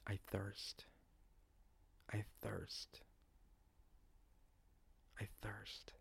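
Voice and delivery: softly repeated, fading with each repeat; understated voice of a dying man; hushed dying words. Acted.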